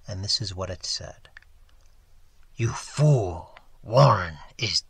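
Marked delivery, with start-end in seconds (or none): 2.6-4.8 hollow, inhuman voice, slow at the end; deep, remote monster voice with loud stresses; deep unearthly voice. A narrator's reading. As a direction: speak as a disembodied thing from a tomb. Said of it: "that voice was deep, hollow, gelatinous".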